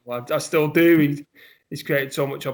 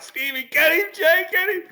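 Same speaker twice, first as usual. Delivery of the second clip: shouting from ringside; 12 semitones higher than usual. Retold or imitated. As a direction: yell him on, voice rising each time. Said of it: "I'm like".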